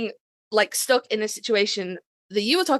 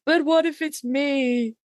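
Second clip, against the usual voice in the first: anxious what-if; 4 semitones higher, slower than usual. Retold or imitated. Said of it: "And I'm always like".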